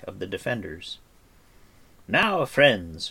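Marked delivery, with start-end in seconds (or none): 2.1-3.1 raised rallying call; shouted. Acted. Bard rallies companions under attack, shouting. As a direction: call the friends to arms loudly. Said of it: "shouted the bard".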